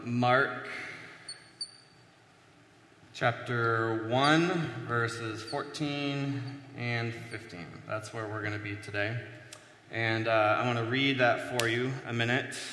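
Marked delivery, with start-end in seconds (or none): 0.0-7.7 slow, grand booming-announcer parody; a playful mock-solemn proclamation, drawn out; mock voice of authority. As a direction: intone the reference slowly like a pompous herald. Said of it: "That's authority right there".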